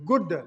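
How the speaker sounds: "good" with a short, quick oo. Shown as a demonstration. Teacher showing learners the short sound, short oo in "good". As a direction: say "good" with a brief vowel, falling. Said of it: "a short sound".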